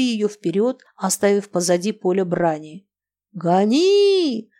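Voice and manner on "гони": high urgent yell; shouting. Acted. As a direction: scream at the horses to run. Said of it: "кричала она".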